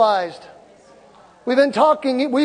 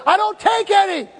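defiant retort; 9 semitones higher than usual. Retold or imitated. Retold defiant reply to doctor.

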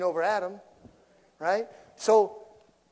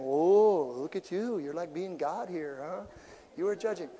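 God's gentle rebuke. Retold or imitated. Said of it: "And God's saying".

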